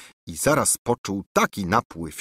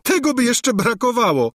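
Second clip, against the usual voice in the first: laughing scornfully; 13 semitones higher, 4 dB louder than usual. A narrator's reading. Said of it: "zaśmiała się księżniczka".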